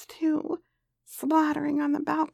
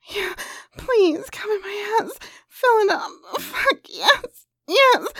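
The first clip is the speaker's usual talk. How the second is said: begging; 5 semitones higher than usual. Acted. Begging during sex.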